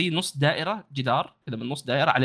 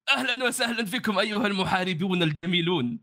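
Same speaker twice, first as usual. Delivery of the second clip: higher flirty formal Arabic; flirty greeting; 6 semitones higher than usual.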